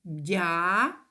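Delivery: «Дя-тел» said syllable by syllable with a pause between; split into syllables. Shown as a demonstration. Teacher splits the word for pupils, syllable by syllable. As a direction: break «Дя-тел» into two beats. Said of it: "складається із двох складів".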